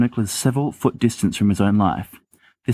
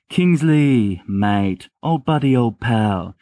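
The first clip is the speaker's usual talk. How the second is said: stammering; 2 semitones higher, much slower than usual. Acted. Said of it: "Sirius stammers".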